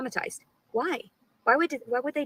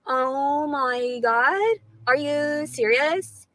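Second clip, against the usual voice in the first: slow disbelief; 4 semitones higher, much slower than usual. Real, not acted. Shocked at being recorded.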